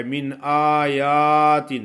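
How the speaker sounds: آیات with the yaa drawn out wrongly; teacher imitating the error on آیات; wrong long yaa. Shown as a demonstration. Teacher demonstrates the common mistake, long yaa in آیات. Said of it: "جو لوگ غلط پڑھتے ہیں وہ اس طرح ہے".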